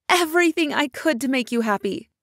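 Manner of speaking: a touch of a yell, bitter and rising; mild angry yell. Acted. Mother jealous of the rich father, mildly yelling. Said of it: "I yelled at the top of my voice".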